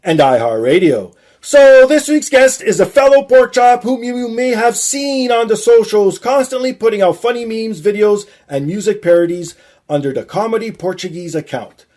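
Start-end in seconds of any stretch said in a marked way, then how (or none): 1.4-11.8 slow, loud host build-up to the name; guest announcement. Acted. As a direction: announce the guest like a ring intro.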